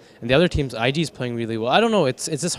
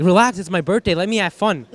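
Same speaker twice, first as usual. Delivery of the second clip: mildly whiny, higher-pitched teammate impression; higher-pitched mock protest; imitating carefree teammate; 6 semitones higher, 4 dB louder than usual. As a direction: brush off criticism in a lightly mocking voice. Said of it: "he's like".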